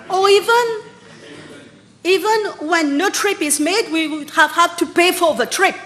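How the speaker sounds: rising heated insistence; emphatic. Real, not acted. Minister heatedly rebuts in parliament.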